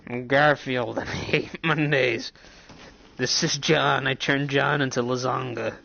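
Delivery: lightly voiced cartoon cat, a bit like Danny DeVito; Garfield. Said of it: "Garfield sound like fucking ... Danny DeVito".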